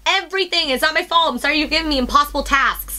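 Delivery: high-pitched, indignant retort; exasperated rant. Retold or imitated. Worker venting about impossible tasks from boss, exasperated rant. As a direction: rattle off the unfair demands in mock outrage. Ranting back at the screaming boss.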